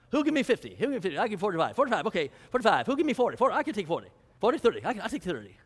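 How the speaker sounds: half-hearted auctioneer chant, rapid bidding calls. Pretend. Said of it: "I wish I could do a good auctioneer voice".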